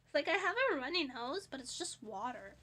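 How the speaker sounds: stuffed-up nasal voice. Real, not acted. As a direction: talk through a blocked nose. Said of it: "my nasally voice".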